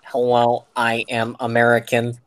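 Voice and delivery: flat mechanical robot voice. Retold or imitated. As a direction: deliver it like a stiff robot. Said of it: "Robot voice".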